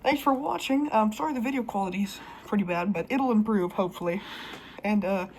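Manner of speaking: speaking through a gas mask; muffled behind gas mask. Real, not acted. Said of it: "so I've got the mask on here".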